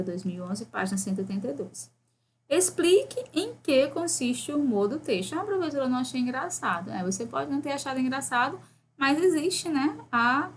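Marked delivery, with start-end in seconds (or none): 5.3-6.9 student voice. Acted.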